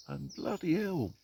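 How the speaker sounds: indignant at the racket; exasperated surprise. Real, not acted. Woken by loud woodpecker.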